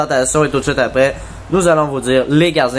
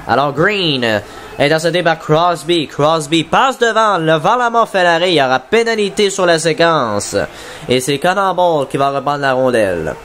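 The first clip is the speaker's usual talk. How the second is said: play-by-play. Acted. Live play-by-play of the game.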